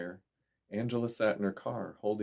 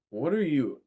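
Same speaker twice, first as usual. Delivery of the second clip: shocked; 7 semitones higher, 4 dB louder than usual. A narrator's reading. Facing the shadow creature.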